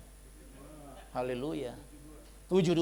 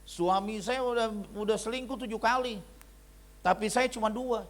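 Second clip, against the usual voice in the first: complaining wife; 6 semitones higher than usual. Retold or imitated. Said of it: "istrinya bilang gini".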